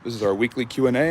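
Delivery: breathless after a jog; panting lightly between phrases; out of breath. Real, not acted. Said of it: "the reason I'm out of breath is because I just went on a jog".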